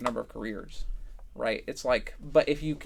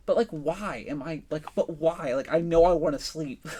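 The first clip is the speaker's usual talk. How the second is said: higher, mock-exasperated pleading; exasperated self-questioning; 4 semitones higher, 4 dB louder than usual. Tired at the computer asking oneself why, mock exasperation. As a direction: question yourself in playful frustration.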